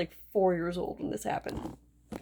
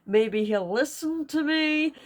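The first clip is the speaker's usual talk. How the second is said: hopeful mother; 7 semitones higher than usual. Retold or imitated. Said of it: "she's like".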